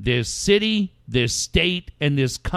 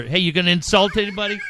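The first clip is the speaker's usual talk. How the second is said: teasing; 4 semitones higher, much faster than usual. Retold or imitated. Teasing friend, laughing.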